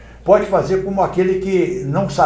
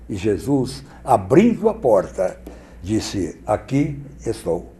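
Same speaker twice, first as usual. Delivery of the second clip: golden voice; 2 semitones lower than usual. Shown as a demonstration. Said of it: "Existe voz de ouro".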